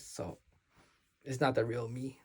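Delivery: normal talking voice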